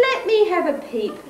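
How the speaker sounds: eager sheep. Acted. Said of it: "said the big white sheep".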